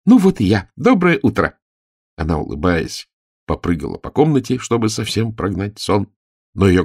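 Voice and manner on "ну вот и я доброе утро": put-on high, loud bright girl's greeting; cheerful burst. Girl jumping out of bed greets the aunt, high and loud. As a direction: bounce up and announce yourself. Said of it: "и рассмеялась".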